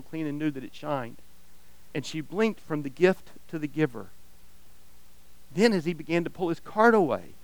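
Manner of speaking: expressive read-aloud of a parable; story reading. Acted. Pastor reading a story to his church, storyteller voice. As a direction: read the tale to the congregation, drawing them in.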